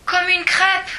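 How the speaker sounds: high, loud eager add-on; a bright high chime-in; excited quip. A narrator's reading. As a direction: pipe up with glee. Paul adds joke.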